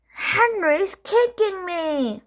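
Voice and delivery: high, slow whine; whiny tattle. A narrator's reading. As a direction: drag out the complaint. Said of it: "I screamed to Peter".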